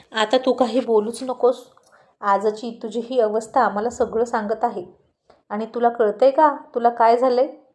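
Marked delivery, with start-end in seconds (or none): none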